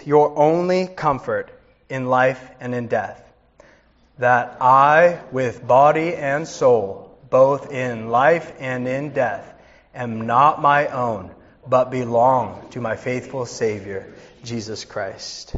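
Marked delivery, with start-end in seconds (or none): 4.2-15.5 slow recitation. Acted. Call and response catechism reading.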